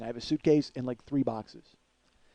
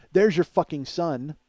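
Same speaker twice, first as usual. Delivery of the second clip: louder, higher, drawn-out mock anger; retold angry jab; 4 semitones higher, 9 dB louder, slower than usual. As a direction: spit it out slowly and loudly. Retold angry girlfriend on phone.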